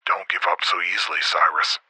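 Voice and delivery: soft, low encouragement over the radio; encouraging. A narrator's reading. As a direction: gently urge him on in a hushed voice. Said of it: "Fath encouragingly replied".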